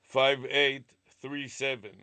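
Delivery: slow, each digit clearly separated; over enunciating. Shown as a demonstration. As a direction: spell out every number for a machine. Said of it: "let me repeat it again, slowly".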